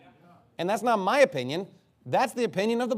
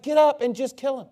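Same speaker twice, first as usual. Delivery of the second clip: higher, brusque mock-divine order; acted-out exasperated command; impatient command; 7 semitones higher, 4 dB louder than usual. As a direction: order it like God fed up. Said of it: "he doesn't say it that way".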